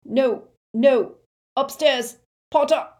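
loud, high-pitched frantic cry; terrified victim crying out, high and loud; pained pleading. A narrator's reading. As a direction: plead desperately at the top of the voice. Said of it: "a scream of pain from Xenophilius".

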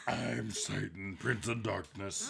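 exaggerated cartoon intonation; slow smoky Satan voice; gravelly cartoon devil. Shown as a demonstration. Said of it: "cartoon character who smoked too many Camels".

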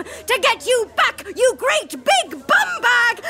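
put-on villain taunting the old school bully, high and sneering; gloating villain. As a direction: gloat over him like a cartoon villain. Villain reveals his revenge.

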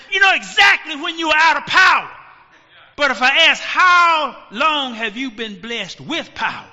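loud fast preaching, pressing the crowd; preaching shout. Real, not acted. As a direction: call it out to the whole church. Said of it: "preacher raising his voice".

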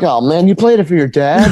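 amused mock astonishment; retold amazement. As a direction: re-enact disbelief, amused. Retells astonishment at student's news.

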